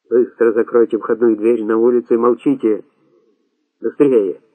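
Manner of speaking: ordinary delivery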